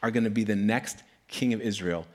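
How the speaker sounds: mild proclamation with a weighty pause; solemn prophet. Retold or imitated. Samuel telling a kid he'll be king, solemn. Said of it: "And Samuel says".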